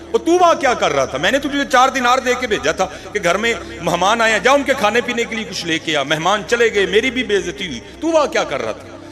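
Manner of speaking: an angry owner berating his servant; angry master. Acted.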